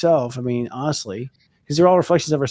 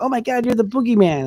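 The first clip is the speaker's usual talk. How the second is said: put-on tiny child's voice, very high-pitched; 10 semitones higher than usual. Comparing someone's view of them to a kindergartner: imitating a kindergartner. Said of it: "like a kindergarten going".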